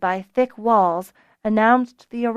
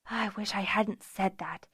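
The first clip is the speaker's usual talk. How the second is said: softer, sighing regret; regretful sigh; 8 dB quieter than usual. A narrator's reading. Fiona groans at what she'd said, sighing. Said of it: "let out a deep sigh".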